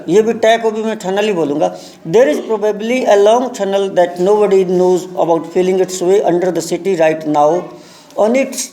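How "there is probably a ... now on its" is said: very slow, deliberate English reading; lesson read-aloud. Shown as a demonstration. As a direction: read it out word by word for learners. Reads the lesson aloud slowly. (धीरे-धीरे, शब्द-दर-शब्द पाठ पढ़ना)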